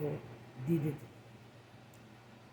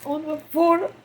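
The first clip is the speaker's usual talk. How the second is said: crying, worn out; 3 semitones higher, 5 dB louder than usual. Real, not acted. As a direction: voice raised and strained with grief. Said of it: "I can't stop crying".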